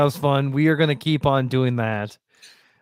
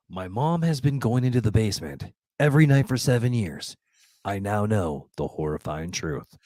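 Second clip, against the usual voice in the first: narrator voice; 4 semitones lower than usual. Acted. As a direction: read it like a spooky tale. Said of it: "Let's give me my narrator voice on".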